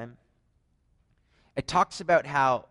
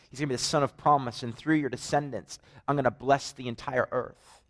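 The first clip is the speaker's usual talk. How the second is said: raised, fervent preacher's retelling; preaching at full force; 2 semitones higher than usual. Acted. Preacher telling his church about the angel, fervent. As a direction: proclaim it like a pulpit story.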